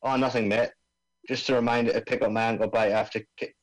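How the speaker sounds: lightly voiced Aussie bomb expert; laid-back Australian accent, mate. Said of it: "I'm supposed to be doing an Australian accent here".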